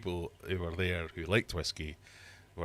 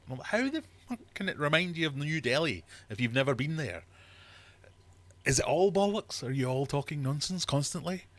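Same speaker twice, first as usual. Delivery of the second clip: higher, louder mock rant; exasperated outburst; 7 semitones higher, 5 dB louder than usual. Retelling the tasting to viewers, loud exasperated rant. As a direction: call out the whole room, fed up and loud. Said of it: "And I'm going".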